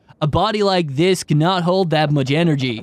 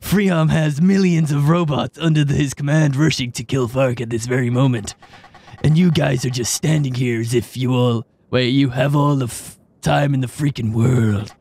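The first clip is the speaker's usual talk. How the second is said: Keanu Reeves voice; 4 semitones lower than usual. Acted. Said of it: "Let me channel my inner Keanu Reeves".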